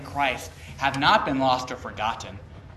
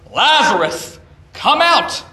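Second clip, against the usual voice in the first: a much higher, louder call into the tomb; loud command; 8 semitones higher, 12 dB louder, slower than usual. Acted. Jesus calling dead Lazarus from the grave, loud commanding shout. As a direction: call him out of the grave with full force. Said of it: "You imagine that with a loud voice".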